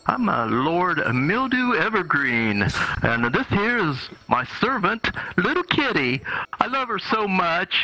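foppish lord. Acted. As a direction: show off your servant like a vain lord. Lord Mildew Evergreen introduces servant.

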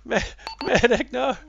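loud desperate call for a medic; man down shout. Real, not acted. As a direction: shout it high, pleading for help. Player down, calling medic again.

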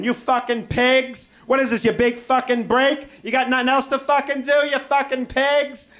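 high, loud, abusive tirade; hammed-up angry screaming. Dragged through house by cops, screaming in outrage. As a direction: scream insults at the top of your voice. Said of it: "I'm screaming".

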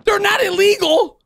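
high-pitched, incredulous outburst; outraged disbelief. Real, not acted. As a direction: cry out in comic disbelief. Outraged at police chasing over chips.

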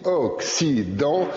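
slow, drawn-out antioxydant, each syllable laid out; spelled out slowly. Shown as a demonstration. Teacher to pupils, slow antioxydant showing its syllables. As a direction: stretch antioxydant so its five syllables are heard. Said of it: "il y a cinq syllabes".

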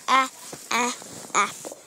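short A in "a, a, apple", as in apple; short vowel demo. Shown as a demonstration. Child teacher showing viewers the letter sounds, short vowel demo. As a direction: say "a" short, twice, then "apple". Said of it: "It makes the short sound".

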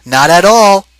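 high, firm wife's reply. Acted. Wife answers in story.

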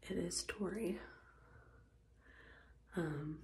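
soft early-morning whisper. Real, not acted. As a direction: whisper so nobody wakes up. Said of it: "so I'm trying to be quiet".

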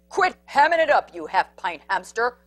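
loud snarling scold; bully dog snaps; snarled. Acted. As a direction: snarl at the little one. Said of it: "snarled Big Bark".

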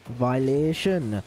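slow stretched mock verdict; drawn-out taunt. Streamer taunting an opponent after a near goal, slow mock verdict. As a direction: drag the word out as a taunt.

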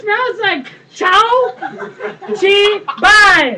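high, slow, giggling through it; laughing. Acted. Caller joking to the plumber, laughing. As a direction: sneak in the joke laughing. Caller slips in crude joke.

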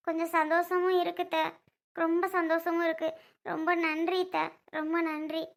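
soft, grateful acted voice; heartfelt thanks. Daughter-in-law thanks her aunt for standing by her, softly grateful. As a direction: thank her gently, letting the voice drop.

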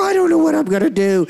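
mock despair after church; worried doubter. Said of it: "as soon as they get out the door".

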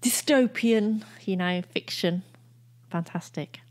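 yawning sigh; words stretched through a yawn. Real, not acted. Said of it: "Sorry, I was yawning".

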